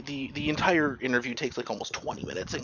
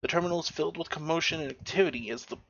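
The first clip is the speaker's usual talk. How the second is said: read-aloud descriptive narration; measured description, slightly softer in places; game master's scene setting; 3 dB quieter than usual. Acted. Game master describing the Mars terminal to players, scene-setting narration.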